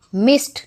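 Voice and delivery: मिस्ड ending in a crisp T, "mist"; one syllable, मिस्ड as "mist". Shown as a demonstration. Teacher showing written D spoken as T, मिस्ड said "mist". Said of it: "लिखा डी हुआ है लेकिन बोला टी जाता है".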